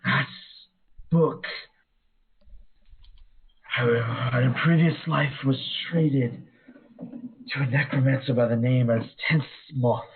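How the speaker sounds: high, lightly eerie banshee; a ghostly spirit recalling. Acted. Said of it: "how to do a Banshee's voice".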